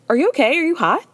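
imitating a fussy hostess, a touch high; mock concern. Host voicing Lisa fussing over the captain, mock concern. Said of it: "She goes".

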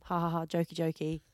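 low, soft, half-hearted joking; unenthusiastic. Real, not acted. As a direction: say it like you barely like it. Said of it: "Say it like you like it".

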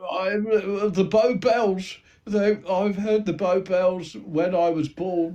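a small crook explaining his nickname, lightly voiced; East End gangster. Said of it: "you've allegedly got an East End accent".

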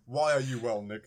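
casual, understated question at an easy level; relaxed. Shown as a demonstration. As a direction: ask it with no fuss at all. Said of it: "I was being far more relaxed".

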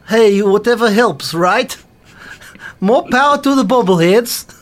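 a hint of a cheerful receptionist; Sonia voice. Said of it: "Says Sonia".

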